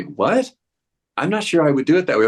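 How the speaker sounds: quick, mildly doubtful muttered aside; a touch of second-guessing, rattled off fast; skeptical inner voice. Retold or imitated. Actor doubting the new director's choices, fast mild skepticism. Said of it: "hear a voice in the back of my head say".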